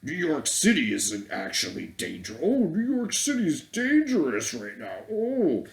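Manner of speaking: high, whiny mock newsman voice correcting himself; mocking Chris Cuomo. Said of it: "Chris Cuomo fucking comes on".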